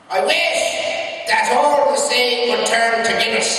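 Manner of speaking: high, loud, drawn-out Irish proclamation; proclaimed Irish wish. Acted. Paddy making his one wish to the genie, grand proclamation.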